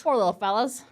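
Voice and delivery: Aussie g'day greeting; stereotypical Australian accent. Shown as a demonstration. Co-hosts practising greetings together in an Australian accent. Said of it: "stereotypical Australian accent".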